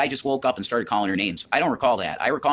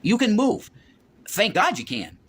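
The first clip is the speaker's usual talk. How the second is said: gentle coaxing; 10 semitones higher, slower than usual. Retold or imitated. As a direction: coax her gently, pitched way up. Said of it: "And it's like".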